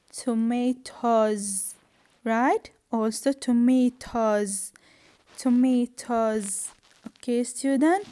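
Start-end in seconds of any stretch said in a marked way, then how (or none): 0.1-1.7 slow "tomatoes" with a voiced z ending; final S as Z. Shown as a demonstration. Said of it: "I pronounce the S". 3.3-6.7 "tomatoes" ending in a voiced z; careful model of "tomatoes", S said as z; final S as Z. Shown as a demonstration. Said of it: "I pronounce the S".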